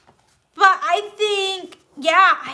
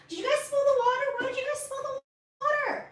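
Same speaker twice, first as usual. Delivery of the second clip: mock scolding; 10 semitones higher, 6 dB quieter, faster than usual. Real, not acted. Scolding kittens for spilled water.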